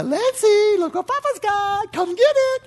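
put-on high, loud, sing-song call to a toddler; coaxing grandpa. Grandfather coaxes granddaughter to walk, high and bright. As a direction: lure a little girl with a treat.

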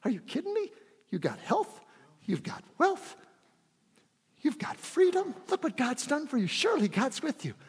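mock disbelief jumping high; incredulous Christian. Average Christian scoffing at Moses, mock incredulous. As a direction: scoff like it's obvious. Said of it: "the average Christian will say".

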